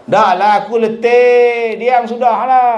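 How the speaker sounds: loud, fed-up snap; a worn-out dad barking at his wife to drop it; loud exasperated husband cutting her off; angry father. Acted. Exhausted father snaps at wife.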